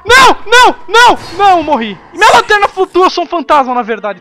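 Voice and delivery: high, loud panicked shrieking; panicking gamer. Real, not acted. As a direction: shriek as it catches you. Caught by monster, dies.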